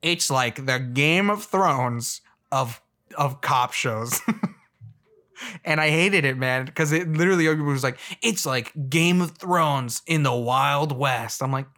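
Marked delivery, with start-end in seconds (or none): 0.0-4.2 mock pitch. Mocking TV pitch line. 8.2-11.4 mock pitch. Mocking TV pitch line.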